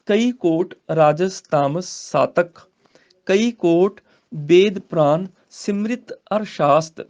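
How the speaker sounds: slow, deliberate recital with long pauses; slow scripture recitation. Shown as a demonstration. Teacher modelling the verse for students, slow and deliberate. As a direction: lay out each phrase slowly.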